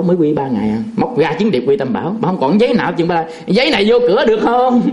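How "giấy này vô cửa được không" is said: high-pitched, lightly acted asking; hopeful mock question. Woman showing her paper to hell's gatekeeper, high hopeful question. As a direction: ask it high, as if trying your luck.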